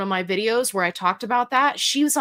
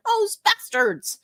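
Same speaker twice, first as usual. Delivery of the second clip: much higher, slow, giggling mock outrage; laughing curse; 12 semitones higher, slower than usual. Real, not acted. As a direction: laugh it out in fake indignation. Laughing curse at Facebook group.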